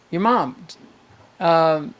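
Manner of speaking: ordinary delivery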